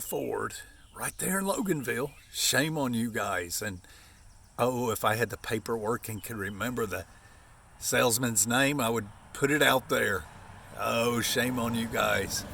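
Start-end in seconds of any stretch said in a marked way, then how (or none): none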